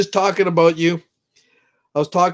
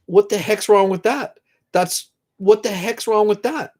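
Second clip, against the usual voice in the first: higher, emotional plea; close to crying; 4 semitones higher than usual. Real, not acted. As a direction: plead as tears threaten. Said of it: "I'm gonna start crying again".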